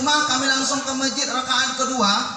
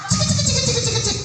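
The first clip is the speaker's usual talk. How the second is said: mock Arab scolding; 14 semitones higher than usual. Mimicking the Arab man's scolding.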